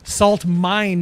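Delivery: "mine" said as one syllable, not "mined". Shown as a demonstration. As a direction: end "Salt mine" on a plain n sound. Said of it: "not mined".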